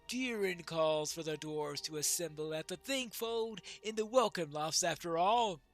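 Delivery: measured, declaimed character reading; lightly voiced dwarf prince. Dwarf prince weighs the call to moot, lightly declaimed. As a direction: deliver it as a lightly acted proud dwarf.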